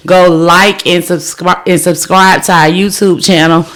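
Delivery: a little winded; slightly breathless delivery; out of breath. Real, not acted. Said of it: "I'm out of breath for some reason".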